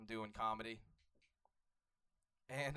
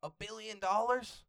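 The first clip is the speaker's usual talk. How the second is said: mock incredulous; 8 semitones higher, 4 dB louder, slower than usual. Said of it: "He was silent".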